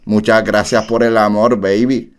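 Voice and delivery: low-key flirty star voice, barely changed; a singer impression. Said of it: "Esa no es la voz de Lunay".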